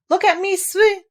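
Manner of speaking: high squeak breaking off mid-word; squeaky Roo cut off. Acted. Roo swept over the waterfall mid-boast, squeaky. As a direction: squeak then get swept away.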